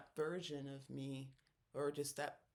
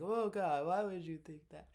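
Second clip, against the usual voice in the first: exasperated younger self; 3 semitones higher, 7 dB louder than usual. Retold or imitated. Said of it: "I'd be like".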